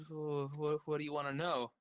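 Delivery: mild nervous stammer; blithering. Acted. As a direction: stumble a little into the question. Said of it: "blithers a little bit".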